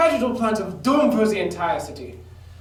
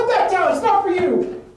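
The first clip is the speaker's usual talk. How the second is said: sharp villain shout; 7 semitones higher than usual. Acted. Villain snaps at a henchman.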